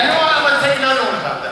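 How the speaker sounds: high, very fast reply; breezy mock announcement. Actor re-enacting his request to director, high rushed voice. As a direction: rattle it off high, as if spontaneous.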